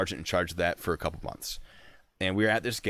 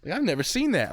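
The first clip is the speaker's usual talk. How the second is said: amazed soldiers; 12 semitones higher than usual. Retold or imitated. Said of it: "two soldiers that were with me are like".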